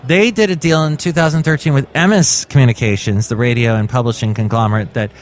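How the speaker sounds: measured news-article reading; read-aloud podcast news item. Acted. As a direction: read the report out to listeners.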